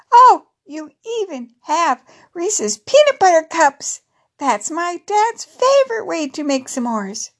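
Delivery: high, eager delight; excited child. Acted. Crystal seeing peanut butter cups, high and thrilled.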